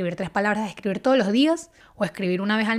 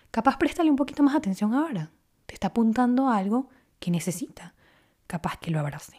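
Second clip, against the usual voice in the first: soft, half-whispered suggestion; gentle inner nudge; 4 dB quieter than usual. Pretend. To her viewers, voicing journaling as an inner compass, hushed. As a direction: let it drop to a hush like a quiet inner compass. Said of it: "brújula que te va diciendo".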